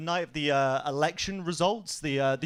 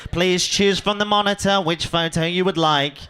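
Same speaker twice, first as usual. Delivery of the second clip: chirpy theme-park staffer; 5 dB louder than usual. Retold or imitated. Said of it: "She was there like".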